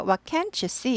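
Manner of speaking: "can't" hit hard and drawn out, slow; stress on can't. Shown as a demonstration. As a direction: lean on "can't" with a falling end. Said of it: "Can't는 강조돼요". ("can't"에 힘주어 천천히)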